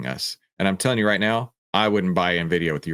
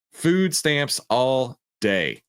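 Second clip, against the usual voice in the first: Food stamps all day, slow and higher; drawn-out verdict; 4 semitones higher, much slower than usual. Shown as a demonstration. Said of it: "This is food stamps all day".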